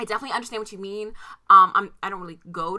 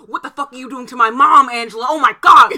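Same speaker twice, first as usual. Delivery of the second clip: loud, raised-pitch retold protest; mock outrage; 3 semitones higher, 13 dB louder than usual. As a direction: yell it in comic horror, peaking at the end. Retold outrage about mom.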